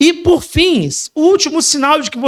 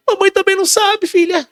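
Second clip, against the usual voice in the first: high, plaintive mother voice; mock weary mother; 8 semitones higher than usual. Preacher mimics a helpless mother, high and plaintive. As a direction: play the helpless mother consoling her child.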